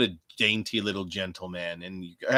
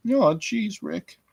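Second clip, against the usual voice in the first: put-on high, nervous stammering boy; bad Morty voice; Morty impression; 12 semitones higher, slower than usual. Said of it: "really terrible impression".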